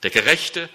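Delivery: Gerechte said fuller, ending on a rising tune; single out Gerechte with a questioning lift; stress on Gerechte. Shown as a demonstration. Preacher repeats the key word to the listeners, stressing Gerechte. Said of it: "Da liegt die Betonung auf dem Gerechten".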